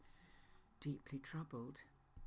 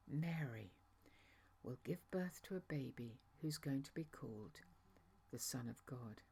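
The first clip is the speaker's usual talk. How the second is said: gentle reassurance. Retold or imitated. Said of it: "as gently as I could".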